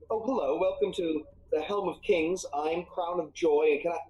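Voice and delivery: lightly voiced shopkeeper welcome, lifting at the end; milliner's greeting. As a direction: greet customers, then catch sight of royalty. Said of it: "she looks up and she goes".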